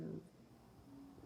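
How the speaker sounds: holding back a burp; talking through burps. Real, not acted. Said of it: "excuse me, I keep burping".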